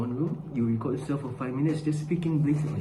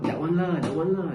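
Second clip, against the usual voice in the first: higher-pitched mock Manglish with "lah"; sing-song Malaysian "lah" phrasing; casual Malaysian English; 3 semitones higher than usual. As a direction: toss it off as Malaysian colloquial shorthand.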